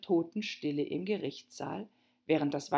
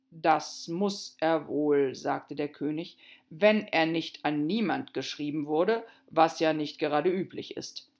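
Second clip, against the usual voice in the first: pompous king voice; 4 dB louder than usual. Acted.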